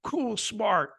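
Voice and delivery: lightly voiced swaggering big-city recruiter, boasting; a hint of a tough-guy sales pitch, hammed up; mock cocky recruiter. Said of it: "putting on an act".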